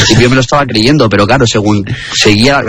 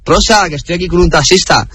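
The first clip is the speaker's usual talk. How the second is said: higher-pitched mock phone greeting; imitated phone call; 6 semitones higher than usual. Passenger pretends to phone Rosa from the taxi, imitated phone call. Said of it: "hacía como que llamaba a alguien".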